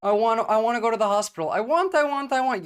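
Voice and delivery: high, whining mock patient voice; whiny patient. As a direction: whine it like a needy patient in a skit. Mocking a whiny patient in clip. (dubbing the patient in a clip, a high, mocking whine)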